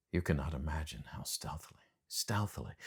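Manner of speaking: hushed and secretive; hushed, lingering over stealthily. A narrator's reading. Describes stealth, hushed delivery.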